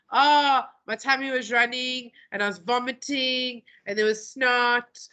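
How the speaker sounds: lightly voiced kid making excuses; young kid oversharing. Teacher playing a kid explaining an absence, lightly voiced young kid. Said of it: "If you ask a young kid".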